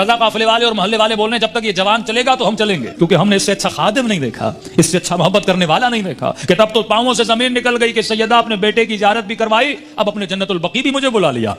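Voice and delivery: high, fervent sermon voice; fervent preaching. Acted. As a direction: preach it up with rising emotion. Emotional climax of the story. (جذباتی بلند خطابت)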